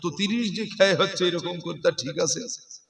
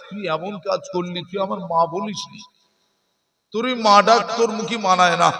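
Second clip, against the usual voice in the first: grieving mother, lightly voiced; 2 semitones higher, 4 dB louder than usual. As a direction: lament like a hurt mother. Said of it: "মা কেঁদে কেঁদে বলবে".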